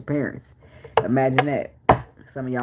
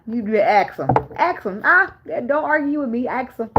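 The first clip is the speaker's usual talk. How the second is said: mock defiance; 9 semitones higher than usual. Real, not acted. Teasing the audience.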